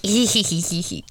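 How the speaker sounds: tipsy mock giggling; drunk giggle. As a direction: giggle like you're hammered. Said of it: "'cause, you know, we're hammered".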